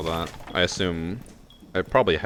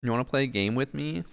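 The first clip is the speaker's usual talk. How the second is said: teasing; 7 semitones higher than usual. Real, not acted. Teasing friend's sweet remark.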